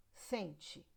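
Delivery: "Sente" with the final syllable a weak "tchi". Shown as a demonstration. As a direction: soften the ending of "Sente" into "tchi". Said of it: "o T virou ti". ("Sente" com o T final virando "tchi")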